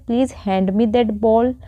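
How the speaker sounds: bowl said as bol, not baul; bowl pronounced right. Shown as a demonstration. Teacher models bowl as bol for students. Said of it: "ये होता है बोल".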